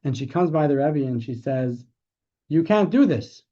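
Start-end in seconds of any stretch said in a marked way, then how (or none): 2.5-3.4 imitating a desperate woman, louder and higher; mock-plead, voice raised; retold loud plea. Older woman begging the Rebbe not to leave, raised pleading voice.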